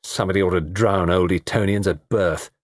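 understated glum grumble; mutedly sour, little movement in pitch; gloomy. Acted. Tony grumbling after the Etonian leaves, gloomy. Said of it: "Tony said gloomily".

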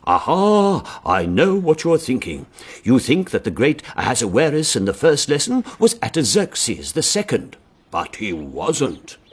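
imitating a vicar thundering from the pulpit; fervent preacher. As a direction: preach it with mock fervour, drawing out the ending. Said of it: "preaching fervently to a couple of old charwomen".

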